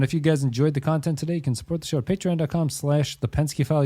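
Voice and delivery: normal talking voice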